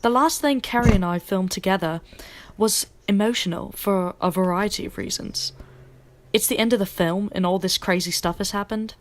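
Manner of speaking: light put-on British accent, quoting an actress; a hint of a British accent read as a quote; Daisy British accent. Shown as a demonstration. Host quoting Daisy Ridley to co-host in a light British accent. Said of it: "maybe I should do it in the British accent".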